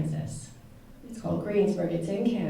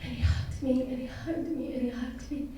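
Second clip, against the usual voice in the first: fading repetition; 3 semitones higher, 7 dB quieter than usual. Real, not acted. Repeated, fading with emotion.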